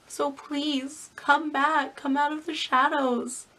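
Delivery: pleading, close to tears; emotional plea. Real, not acted. Vlogger begs old fans to return, tearful. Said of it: "getting so super emotional".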